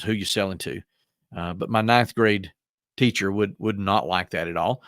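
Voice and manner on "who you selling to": lightly put-on country boy accent, dropping the "are". Shown as a demonstration. Speaker contrasts his country boy accent with proper grammar, rural American. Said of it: "my country boy accent says".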